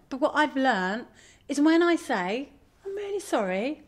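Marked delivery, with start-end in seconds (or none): 2.8-3.8 sincere apology. Shown as a demonstration. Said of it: "really sincerely".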